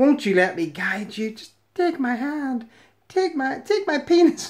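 put-on creepy voice. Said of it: "He sounds like a creepy paedophile".

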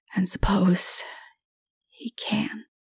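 quiet, unhurried delivery. Narrator reading Richard's line to Jonathan, spoken even more quietly. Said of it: "still more quietly".

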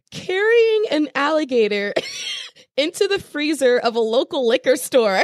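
laughing, high swooping delivery, words breaking up. Describing a viral video to another speaker, laughing while talking. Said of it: "just can't even say it without laughing".

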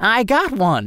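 high, cackling delivery through laughter. Reading a sewer chase story, Cutwater cackling. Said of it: "cackled Cutwater".

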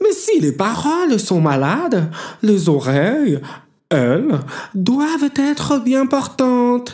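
very high, piping, pitched way up hare voice. Narrator reading a fable, Locke answers Jacig the caiman: Locke the hare's voice.

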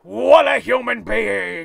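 very slow, loud, booming, gravelly put-on drawl. Retelling a line someone was fed, in a Vince McMahon voice. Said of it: "Notice how I said that in a Vince McMahon voice".

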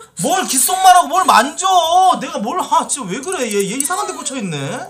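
high, loud, incredulous protesting voice.

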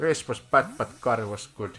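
very loud, put-on Finnish accent. Repeating a line just said, as much in a finnish accent as possible. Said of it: "That was as in Finnish accent as I can get it".

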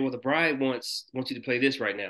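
ordinary talk, nothing marked

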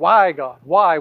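loud, whiny, complaining delivery. Showing how people complain to god in trouble: mock whining complaint. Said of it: "That kind of whining, complaining".

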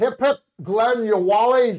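loud, high, poor fake Australian accent. Giving a shout-out to an australian, in a bad australian accent. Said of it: "I don't do a very good Australian".

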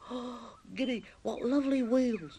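very high, fascinated gush full of wonder. Narrator reads the hamster's line as he inspects the machine, fascinated. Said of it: "The hamster is fascinated".

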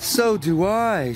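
groaning. A smoking engine answers another engine that feels sick, groaning. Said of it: "she groaned".

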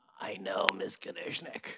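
play-acted, very sheepish, reluctant tone. Retelling standing up in jury selection to answer the judge, very sheepishly. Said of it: "I said very sheepishly".

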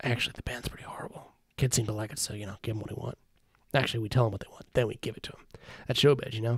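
very quiet, secretive whisper. Reading a game scene, voicing a concert promoter who whispers. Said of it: "Leans closer and says in a whisper".

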